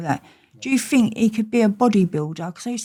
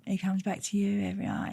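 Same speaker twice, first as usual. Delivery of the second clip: whisper; 8 dB quieter than usual. Retold or imitated. Retold confidential visitor's words.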